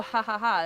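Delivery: spoken imitation laugh, ha-ha-ha; mock laugh. Describing a laugh heard in anime, imitating it. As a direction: say the laugh in separate syllables. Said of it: "a laugh and you're like".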